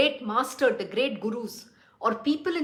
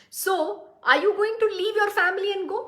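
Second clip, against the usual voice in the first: quoting Guruji; 5 semitones higher than usual. Retold or imitated. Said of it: "is the question my Guruji will ask".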